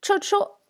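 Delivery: "cho cho" read out slowly as a model; teacher models "cho cho" carefully, high and clear; Tibetan syllables. Shown as a demonstration. Teacher reading Tibetan syllables to learners, model pronunciation. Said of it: "Donc la première ligne".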